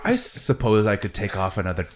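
grudging mechanic offering a discount. Acted. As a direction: play the haggling mechanic. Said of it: "and he goes".

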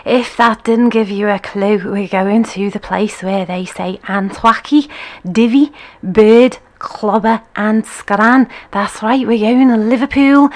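hammed-up Liverpool Scouse accent, put on badly; a playful, put-on Scouse accent. Host greets viewers in a mock Scouse accent. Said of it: "my bad Scouse accent".

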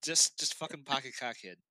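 Boston dude, R's dropped; swaggering Boston local; mock Boston guy, no R's anywhere; Boston accent. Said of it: "there's just not an R in sight".

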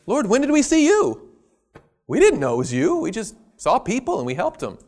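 high, sincere surprise; innocent, wondering question; earnest surprise at not knowing; genuinely puzzled righteous. Retold or imitated. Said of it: "differences in the inflection and the tone".

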